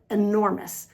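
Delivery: "enormous" with the stress on NOR; stress on second syllable. Shown as a demonstration. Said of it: "The stress is on the second syllable".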